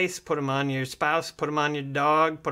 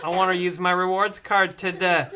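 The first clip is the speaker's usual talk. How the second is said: a touch louder, mildly insistent; lightly pleading retold customer; 3 semitones higher, 4 dB louder than usual. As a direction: press the request with mock earnestness. Retold drive-thru exchange, first insistence.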